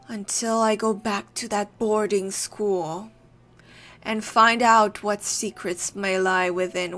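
lightly acted troubled monologue; formal, dramatic reading of a doubting friend; troubled schoolmate. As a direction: ponder an old friend's sanity, theatrically. Reads game monologue in character.

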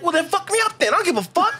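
high, laughing defiant yell; defiant shout. Retold or imitated. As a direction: throw it back, laughing.

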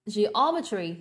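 "Geometry" stressed on OM; second-syllable stress. Shown as a demonstration. Teacher models the word for students, second-syllable stress. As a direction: lean on OM in "Geometry", then fall. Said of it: "âm số hai luôn".

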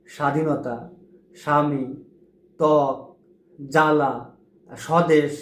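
স্বাধীনতা said "sha-dhi-no-ta" with no b sound; each word said with the ব left silent; silent b-phala examples. Shown as a demonstration. Teacher lists examples slowly and deliberately. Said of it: "কেমন?".

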